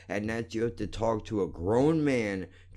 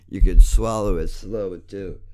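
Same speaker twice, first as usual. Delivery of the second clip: yelled taunt; 3 semitones lower, 10 dB louder than usual. Real, not acted. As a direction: shout the taunt the second time. Repeats the insult louder.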